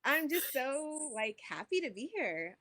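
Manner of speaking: high, breaking laugh through happy tears; getting emotional. Real, not acted. Astrologer moved to tears talking to listeners, laughing emotionally. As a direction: overcome with joy, laughing as it catches her. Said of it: "ooh, I'm getting emotional".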